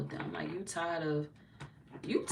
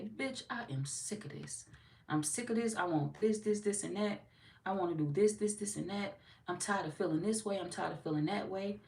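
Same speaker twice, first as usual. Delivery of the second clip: fed-up self; 3 semitones higher than usual. Retold or imitated. Imagined fed-up quote.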